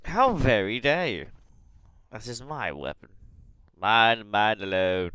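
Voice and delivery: loud, theatrical indignation; hammed-up possessive protest; mock outrage. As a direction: proclaim it loudly like a wronged owner. Mock outrage over a taken gun.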